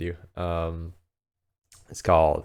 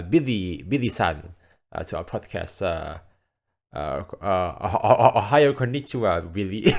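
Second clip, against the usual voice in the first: fake Japanese accent. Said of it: "drop that stupid Japanese, uh, accent".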